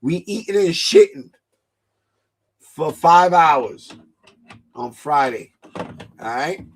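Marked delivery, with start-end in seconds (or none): 2.6-3.9 stretched out. Real, not acted. Joking emphasis stretched.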